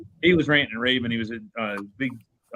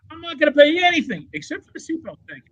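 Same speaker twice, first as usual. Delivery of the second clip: much higher, hammed-up furious refusal; mock furious trucker; 4 dB louder than usual. Trucker yelling back at the judge, hammed-up fury. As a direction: play the trucker losing it. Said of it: "he's all mad about it".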